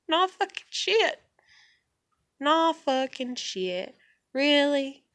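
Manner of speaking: high-pitched sarcastic disbelief; sarcastic retort. Real, not acted. Answering people who say she has problems, sarcastic. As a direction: throw the obvious back, stretched and high.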